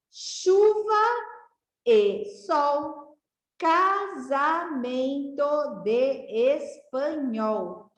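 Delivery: slow, sing-song reading of a rhyme; rhyme read to children. Shown as a demonstration. Teacher reads a parlenda aloud to the class, slow and sing-song. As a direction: read it slowly so the kids can follow.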